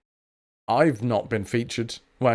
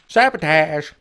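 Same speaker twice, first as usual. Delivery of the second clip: playful exclaim; 5 semitones higher, 7 dB louder, slower than usual. Real, not acted. Echoes NPC line.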